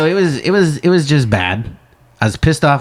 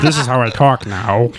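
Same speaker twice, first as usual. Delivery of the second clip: laughing in the silly put-on voice. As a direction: ham up the new voice, giggling. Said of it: "I'm just gonna talk like this all the time".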